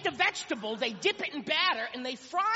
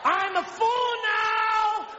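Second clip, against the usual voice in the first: lumbering sumo voice; 6 semitones higher, much slower than usual. Pretend. Sumo wrestler on beach.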